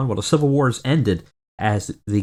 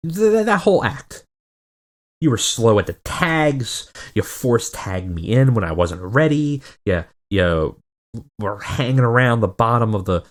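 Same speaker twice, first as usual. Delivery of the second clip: frustrated partner. Retold or imitated. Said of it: "a little hot under the collar".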